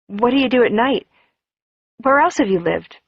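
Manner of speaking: tumbling, eager interrogation; rattling on. Acted. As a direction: fire the questions off in a breathless rush. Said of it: "I rattled on suddenly".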